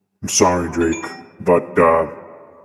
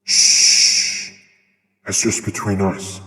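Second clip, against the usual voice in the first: hushed confiding; slower than usual. Pretend. God confiding a secret to the chat, hushed.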